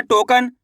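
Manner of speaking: "टोकन" joined into one word, slowly drawn out; teacher blending "टोकन" slowly into a whole; blended word. Shown as a demonstration. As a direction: run the sounds of "टोकन" together, stretching it. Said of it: "तो मिलके बन जाएगा".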